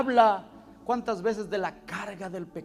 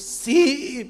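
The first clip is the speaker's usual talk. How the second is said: put-on higher, louder tearful child's yes; crying boy imitated; 9 semitones higher, 11 dB louder than usual. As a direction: voice the weeping boy's yes. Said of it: "pero no paraba de llorar". (sí de niño llorando, imitado)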